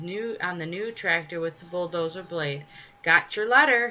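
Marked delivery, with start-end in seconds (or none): 3.0-3.9 louder, higher call; hearty called-out announcement; storybook shout. A narrator's reading. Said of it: "he shouted".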